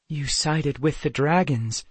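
understated accusation; accusing. Acted. Kendra confronts Amulon over the dragons, accusing. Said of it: "Kendra accused".

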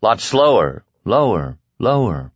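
jocular lunatic echo. Acted. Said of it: "dangerously jocular voice of an approaching lunatic".

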